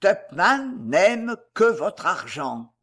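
slow, weighty revelation; deep, grave voice. A narrator's reading. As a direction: drop it slowly and gravely. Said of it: "il dit d'une voix basse et profonde". (voix grave et profonde, lente)

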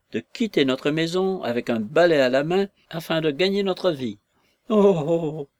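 a hammed-up tearful wail; near-sobbing lament. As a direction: lament to your wife as if about to sob. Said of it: "s'écria-t-il presque avec des sanglots".

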